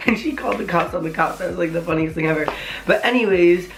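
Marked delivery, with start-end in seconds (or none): 0.1-2.5 laughing as the line starts; amused. Real, not acted. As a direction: say it through a real chuckle. Laughs at the funniest part.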